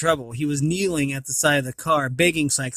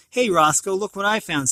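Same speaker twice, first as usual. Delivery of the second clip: calling out; 4 semitones higher, 4 dB louder than usual. Acted. DeSoto calls out to Roscoe.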